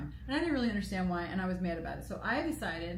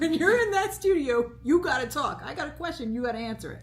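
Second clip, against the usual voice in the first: higher, imitated boss giving orders; retold firm lecture; 4 semitones higher, 4 dB louder than usual. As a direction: spell out the rules as he did. Retelling host laying down rules.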